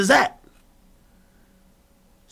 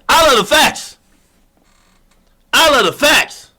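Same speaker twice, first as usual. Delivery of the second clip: proud louder declaration; 8 semitones higher, 5 dB louder than usual. Acted. Contrasting soft and loud repeats.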